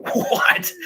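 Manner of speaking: high squeaky startled what; shocked what. Retold or imitated. Storyteller voices the shocked hipster, high startled squeak. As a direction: yelp it in disbelief.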